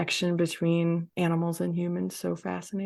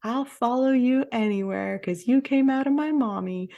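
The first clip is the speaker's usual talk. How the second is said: higher, put-on voice for a loyal horse; playfully imitated animal, pledging devotion; devoted horse's voice; 6 semitones higher than usual. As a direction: speak as the big horse doting on a child. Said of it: "And he's like".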